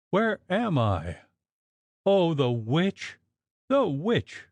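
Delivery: high, slow, panicked wail about the witch; terrified cry. Acted. Waking invalid crying out to the women in terror. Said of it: "Then she cried".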